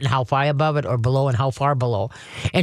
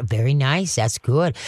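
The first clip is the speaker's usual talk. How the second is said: calm praise; 4 semitones lower, slower than usual. Shown as a demonstration. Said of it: "You wanna reward when he's quiet".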